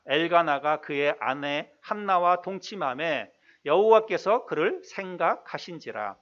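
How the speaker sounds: slow, measured Bible reading; scripture reading. Acted. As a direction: read the verse out slowly and formally. Reads scripture aloud. (느리고 또박또박한 성경 봉독)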